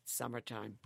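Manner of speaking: talking while blowing nose; words around a nose blow. Real, not acted. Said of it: "Blowing your nose again".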